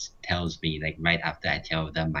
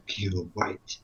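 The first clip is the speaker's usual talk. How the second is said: laughing repeat; 4 dB quieter than usual. Real, not acted. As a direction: echo it through a laugh. Mocking repeat while laughing.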